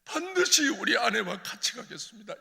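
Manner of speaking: loud, high 반드시 우리 아내와 같이 가겠습니다; fervent vow. Retold or imitated. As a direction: swear it to God. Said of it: "하나님". (하나님께 외치는 맹세)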